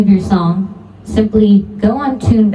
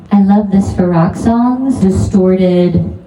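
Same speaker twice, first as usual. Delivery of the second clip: megaphone effect. Shown as a demonstration.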